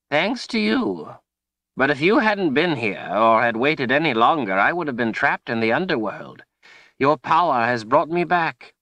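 put-on high-pitched old wizard voice, emphatic; old wizard, grateful. A narrator's reading. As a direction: explain as a relieved old wizard, high and animated.

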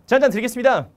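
loud, high dutiful offer; military-style offer. Acted. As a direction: offer the drink like a junior at attention. Junior offering senior a drink. (군기 든 말투로 크게 권하기)

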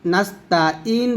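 নাস্তাঈন with a plain hamza instead of ain; slow wrong-letter demo. Shown as a demonstration. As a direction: say নাস্তাঈন without the throat ain. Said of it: "আইনের জায়গায় হামজা উচ্চারণ করে ফেলি".

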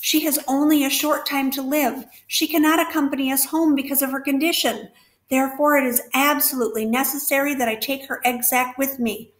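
desperate pleading. Acted. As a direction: plead with the rat as if time is running out. Wilbur's desperate pleading to the rat.

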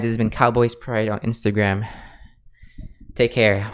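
winded after long recording; short of breath, a bit tired. Real, not acted. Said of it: "I'm out of breath".

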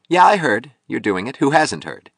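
high, loud, scornful interruption; belligerent, impatient. Acted. Sculptor interrupting Rourke on the phone, belligerent and impatient.

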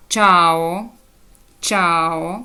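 «чао» as a teacher's careful example, ch into a; ch plus a. Shown as a demonstration. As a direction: model «чао» twice, slowly, with a clear ch. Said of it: "«чи»".

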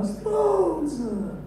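very high, slow enraged shriek; furious shrieking man. Retold or imitated. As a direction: screech it like a raging brute.

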